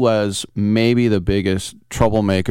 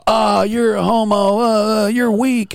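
mocking jocks; 12 semitones higher, slower than usual. Linemen mocking him.

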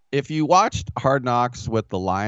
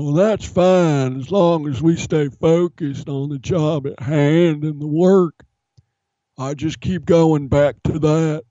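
Dan Campbell impression; 6 semitones higher than usual. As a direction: drag out the coachspeak like a grizzled coach. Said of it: "he sounds like this".

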